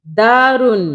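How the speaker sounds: दारुन with the दा held long; lengthened first syllable in दारुन; slightly stretched vowel. Shown as a demonstration. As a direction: draw out the aa in दारुन, then add रुन. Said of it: "इसे हम थोड़ा सा खींचेंगे".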